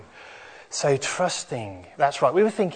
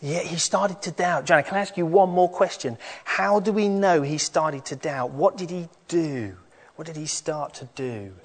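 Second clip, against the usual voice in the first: put-on lively higher children's storyteller; kids show host; 5 semitones higher than usual. Children's talk, higher animated voice.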